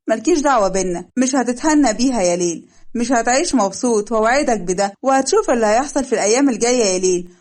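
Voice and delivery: a touch of a bitter, loud threat; vengeful vow. Acted. Stepmother vows revenge on Leil, mildly angry.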